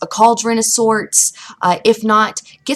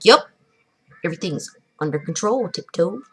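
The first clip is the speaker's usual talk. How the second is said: gnome's reply; 2 semitones lower than usual. Acted.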